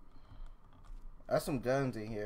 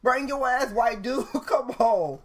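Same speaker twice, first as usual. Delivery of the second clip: yelling across the room; 10 semitones higher, 6 dB louder, slower than usual. Real, not acted. Taunting friend to hurry.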